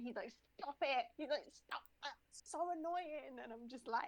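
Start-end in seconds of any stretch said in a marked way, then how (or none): 0.6-3.4 mock-annoyed plea to stop; annoyed protest. Friend fed up with the accent, mock annoyance. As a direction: imitate an irritated friend protesting. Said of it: "he absolutely hates it".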